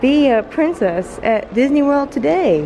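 high, loud commercial ad-announcer voice.

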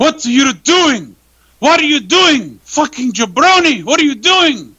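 play-acted yelling, pitched way up. Retell how he turned on you at the ring in Vienna, imitating someone yelling. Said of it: "he's yelling at me".

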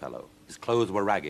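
ordinary delivery

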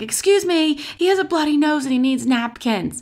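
urgent, high scream carrying over distance. Retelling a friend calling out to the flight attendant: imitating someone screaming. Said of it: "just screams at the flight attendant".

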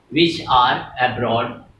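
ordinary delivery

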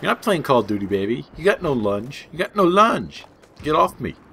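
tough street gangster-style voice. Gamer telling off an opponent who tried to knife him, talking like a gangsta. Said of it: "I'm talking like a gangsta".

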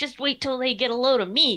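forced, put-on gruffness over a light voice. Retelling running around to scare off a haunting; put-on tough, gruff voice. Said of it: "trying really hard to sound like tough and gruff".

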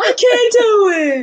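mock weepy little kid sobbing, very high, slow. Imitating a child who struggles with schoolwork: imitating a crying child. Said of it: "Stop crying".

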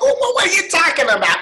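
very high-pitched, mad, ranting voice. Showing how a movie actor sounds when he gets mad: mad Adam Sandler rant voice. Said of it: "He gets all mad".

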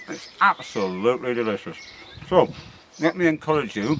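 words spoken through a mouthful of food. Speaker tasting a fresh floret right off the plant, talking with mouth full. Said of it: "sorry about speaking with my mouth full".

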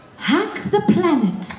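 very high-pitched game-character voice. Asked to say another hero's voice line in their own character's voice. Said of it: "in your characters' voices".

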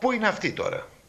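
playful needling tone. Speaker retelling his own earlier remark: retelling a teasing remark. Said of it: "Έτσι είπα πειρακτικά".

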